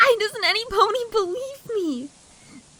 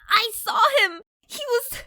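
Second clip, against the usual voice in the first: shouting; 2 semitones higher than usual. Acted. Panicked filly insisting.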